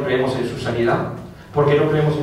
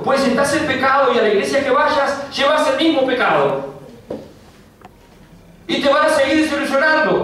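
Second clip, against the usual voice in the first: full-force preaching; 11 semitones higher than usual. Acted. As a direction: rebuke the listener from the pulpit.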